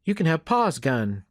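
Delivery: put-on high, mildly excited child voice; lightly eager boy; exclaiming boy. A narrator's reading. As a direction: blurt out a generous offer like a kid. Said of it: "Jed exclaimed".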